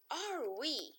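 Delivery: "is he?" rising high as a question; high inverted question; question tune. Shown as a demonstration. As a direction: lift "he" up into a question. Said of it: "vamos perguntar".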